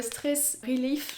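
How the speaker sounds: "Stress Relief" said in English with French vowels and French r; awkward English product name, French-accented; "Stress Relief" in hesitant French-accented English. Real, not acted. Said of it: "Je suis désolée pour mon anglais".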